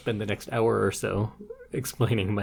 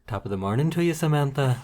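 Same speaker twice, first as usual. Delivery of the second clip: put-on terrible Irish accent; faster than usual. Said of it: "In a terrible Irish accent".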